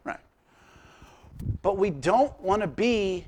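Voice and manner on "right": mock agreement. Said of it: "Uh-huh, we all nod".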